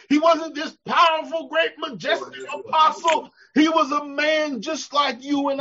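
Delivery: ringing pulpit shout; preaching shout. Real, not acted. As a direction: cry it out to the church. Preacher correcting the image of Paul.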